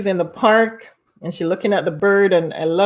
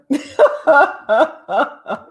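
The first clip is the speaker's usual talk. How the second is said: loud laugh; 8 semitones higher, 6 dB louder than usual. Real, not acted. Laughing at memory.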